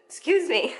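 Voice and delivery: laughing through a hiccup; giggling apology. Real, not acted.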